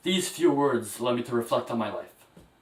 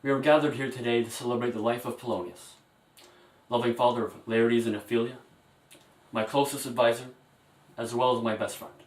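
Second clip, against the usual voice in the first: faltering tender eulogy. Acted. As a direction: speak gently, holding back tears. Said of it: "A very, very emotional moment".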